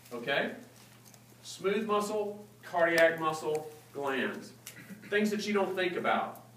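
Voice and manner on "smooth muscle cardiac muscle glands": measured teacher's emphasis; slow, deliberate listing. Real, not acted. Teacher giving students the key list, slow and deliberate. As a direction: space out each item, pitch stepping down to the last.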